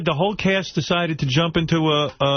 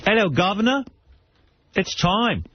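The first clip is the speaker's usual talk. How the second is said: mock Cockney; 5 semitones higher than usual. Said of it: "That's English, I th-, that's the Cockney dialect".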